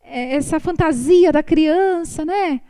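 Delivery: mock cooing over a cute child; doting parent. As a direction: coo it like a charmed mother. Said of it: "Eu falo".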